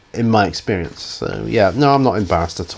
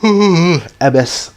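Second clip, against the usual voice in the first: yawning mid-word; 8 semitones higher, 5 dB louder than usual. Real, not acted. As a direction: talk through a yawn. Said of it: "M S yawned".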